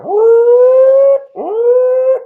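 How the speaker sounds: high, loud imitated siren wail; siren whoop. Imitating the arena siren for the crowd, loud high wail.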